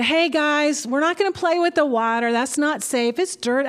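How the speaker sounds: put-on a mild grandmother warning the kids, sped up a little; gentle grandma voice. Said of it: "in my Nammy voice".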